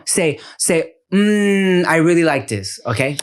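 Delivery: put-on bossy child correcting dad; Veda. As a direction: imitate a small director feeding a line. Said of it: "So she'll be like this".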